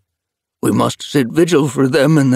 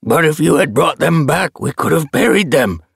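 higher, louder indignant elder; protesting elder; 11 semitones higher, 7 dB louder than usual. A narrator's reading. Elder protests to the leader, loud and indignant. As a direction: demand honour for the dead. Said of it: "Oakstep protested".

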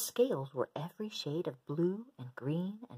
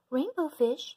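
high, loud little voice; little fish calling; 11 semitones higher, 7 dB louder than usual. Acted. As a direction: call out in a tiny high voice. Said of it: "he called".

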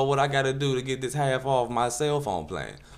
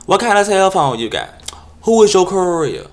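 much higher, loud camp voice; mock prissy guy; 8 semitones higher, 8 dB louder than usual. Solicitor repeating his name, high and camp.

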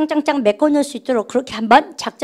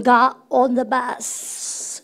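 whisper; 5 dB quieter, much slower than usual. Real, not acted. Teacher writes on board.

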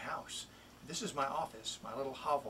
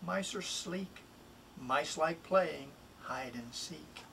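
a pet-store mouse selling himself, lively and bouncy; lightly voiced mouse, playful and persuasive; eager mouse reading his rhyme. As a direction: read it as the little mouse pleading to go home. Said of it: "It's really the mouse speaking".

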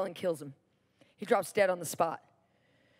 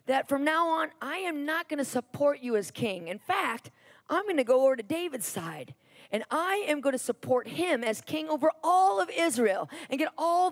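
higher-pitched mock indignation; imitated angry declaration, pitched up; retold anger; 3 semitones higher than usual. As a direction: act out a mild, emphatic tirade. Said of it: "He gets so mad".

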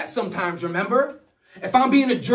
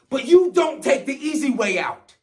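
anguished shout. Acted. Shouted plea.

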